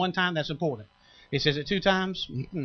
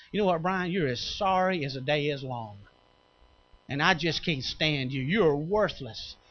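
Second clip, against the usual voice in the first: sneering devil voice. Retold or imitated. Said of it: "That's the devil".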